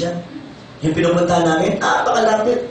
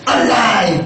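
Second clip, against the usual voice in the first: alive with a laugh. Shown as a demonstration. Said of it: "Ganito yun, yun".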